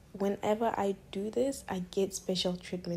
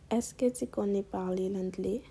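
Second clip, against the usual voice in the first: put-on French question in a novice's accent; feigned beginner French. Customer asking a waiter for English, feigned beginner French. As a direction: act like you barely know French. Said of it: "trying to make me sound like I just don't know how to speak French".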